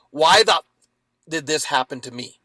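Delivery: angry why-me outburst, loud start; bitter victim. Shown as a demonstration. Man angry at the dog attack, bitter loud why-me. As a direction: rage at the universe over the attack. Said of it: "when I looked at it with, in curiosity".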